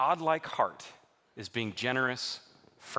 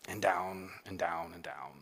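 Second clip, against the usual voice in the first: sinking sadly; 7 semitones lower, 8 dB quieter than usual. Real, not acted. Stock sinking, voice sinks.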